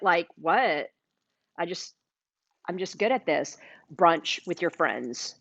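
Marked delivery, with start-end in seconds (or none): 0.4-3.6 super casual. Pretend. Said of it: "you're gonna be super casual about it".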